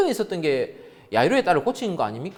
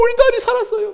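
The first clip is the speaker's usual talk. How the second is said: joyful cry, tapering; 9 dB louder than usual. Retold or imitated. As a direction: still high but less loud, falling at the end. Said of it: "막 소리 막 질렀을 것 같아요".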